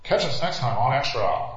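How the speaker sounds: plugged-nose TV host, drawn out; Pat O'Brien. Acted. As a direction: pinch the nose and stretch each teaser, swooping. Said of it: "when he says Pat O'Brien? With the plug nose".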